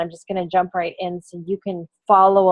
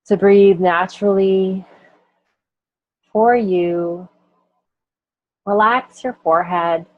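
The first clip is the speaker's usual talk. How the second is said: guided body scan. Acted. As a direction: lead the listener gently through the body. Leads a body scan meditation.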